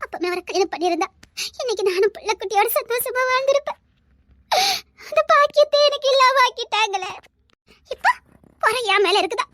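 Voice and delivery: sobbing breaths between anguished phrases; tearful lament. Acted. Childless elder sister lamenting her lost chance, crying. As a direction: break into a wailing grievance, then crumble. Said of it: "அக்கா, அழாதக்கா".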